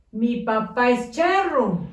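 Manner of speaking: words run together, no gaps; all squashed together. Shown as a demonstration. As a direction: mash the words into one. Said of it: "pero está todo amontonado".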